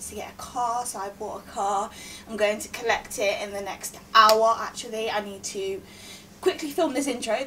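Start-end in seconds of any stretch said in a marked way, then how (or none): 2.3-7.4 breathless from rushing; out of breath. Real, not acted. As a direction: talk while catching breath. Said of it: "This is why I'm so out of breath".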